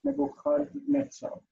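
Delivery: Nebuchadnezzar slowly with a throaty "kh"; careful Nebukhadnetsar, the "kh" soft; soft chaf. Shown as a demonstration. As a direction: model Nebuchadnezzar with "ch" as in Bach. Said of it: "is soft".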